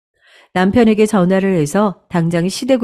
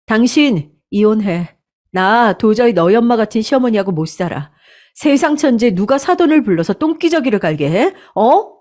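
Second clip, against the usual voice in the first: heated outburst; 3 semitones higher than usual. Acted. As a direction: demand he hear this outrage. Wife demanding divorce.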